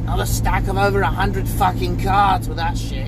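rough, smoker's rasp; hoarse voice. Real, not acted. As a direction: talk with a worn, husky throat. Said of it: "I sound like I've been smoking cigarettes all day".

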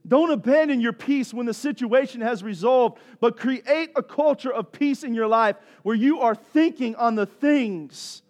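driving, emphatic sermon delivery; forceful preaching. Real, not acted. Preacher telling friends how peace guards them, forceful preaching. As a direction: press each point home to the congregation.

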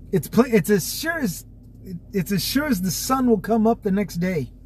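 drinking coffee. Real, not acted. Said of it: "Sorry, I'm drinking my coffee".

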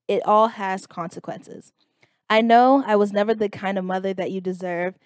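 mock-formal, understated recital; reading a message aloud. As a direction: read out a mother's sarcastic letter. Reads mother's message aloud.

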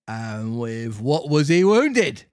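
slow, measured policeman question; a hint of a stern copper; officer questions the puppet slowly.

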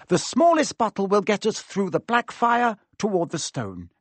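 put-on high, eager clever-girl voice; excited know-it-all working it out; Hermione. Story figure Hermione.

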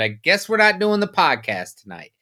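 sarcastic. Retold or imitated. Co-host retelling his text about the cancelled podcast, sarcastic. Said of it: "I was being sarcastic".

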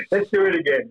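put-on light, corny German accent. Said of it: "very strange German accent".

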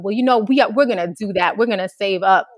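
retold kid's plucky insistence; determined comeback. Kids answer the principal about recycling, eagerly defiant.

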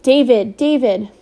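calling out loud into the storm; a wife's loud, anxious call into the night; crying out. Acted. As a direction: call his name out into the rain. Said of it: "cried into the storm".

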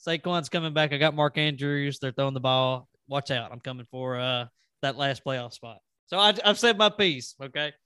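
cocky wrestler trash talk, trailing off; wrestling promo. Pretend. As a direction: warn them like a heel wrestler. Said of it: "I feel like I should cut a promo".

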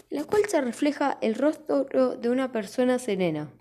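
stuffed full. Real, not acted. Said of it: "perdón, por el erupto".

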